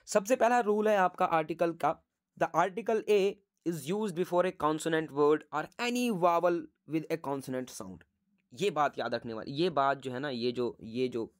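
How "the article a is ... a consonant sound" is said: reading the rule out word by word, very slowly; slow dictation. Shown as a demonstration. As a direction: dictate it slowly so students can write.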